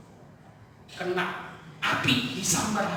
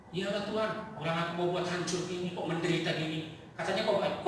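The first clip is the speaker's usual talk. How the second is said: Job whining; 4 semitones lower, 7 dB quieter than usual. Retold or imitated. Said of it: "panjang kali ngeluhnya".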